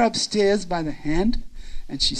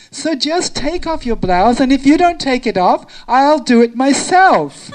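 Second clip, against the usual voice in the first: playful insistence; 3 semitones higher, 6 dB louder than usual. Acted. Playful ultimatum to the shy girl.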